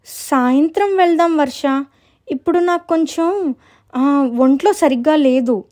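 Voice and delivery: lightly acted reluctant girl; lightly voiced girl making excuses.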